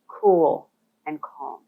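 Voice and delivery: "cool and calm" drawn out very slowly, each word stretched. Shown as a demonstration. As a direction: let "cool and calm" unfold slowly, unhurried. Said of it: "slow things down and appear".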